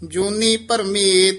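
ਪਰਮੇਤ ending on a t sound, not a d. Shown as a demonstration. Teacher correcting the ending of ਪਰਮੇਤ. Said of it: "ਇਹ ਪਰਮੇਤ ਤੱਤੇ ਨਾਲ ਬੋਲਣਾ ਹੈ".

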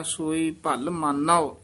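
"ਭਲ" pressed slightly firm; firm, compact "ਭਲ"; tightened word. Shown as a demonstration. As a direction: tighten "ਭਲ" in "ਸੋਈ ਭਲ ਮਾਨੋ". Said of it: "ਕਸ ਕੇ ਬੋਲਣਾ ਹੈ".

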